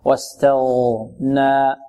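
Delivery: واستغنى with a full, heavy ghayn, drawn out slowly; slow tajweed model of واستغنى, ghayn emphatic. Shown as a demonstration. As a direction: recite واستغنى slowly, thickening the غ. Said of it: "الغين مفخمة".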